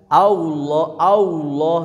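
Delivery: "Allah" with an "au" glide; "Allah" said as "Aulo"; wau error. Shown as a demonstration. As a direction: round the lips so "Allah" sounds like "Aulo". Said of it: "aya wawuan".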